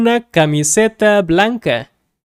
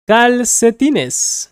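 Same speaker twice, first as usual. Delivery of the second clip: Calcetines said slowly, a little higher; slow teaching repeat; 3 semitones higher, slower than usual. Shown as a demonstration.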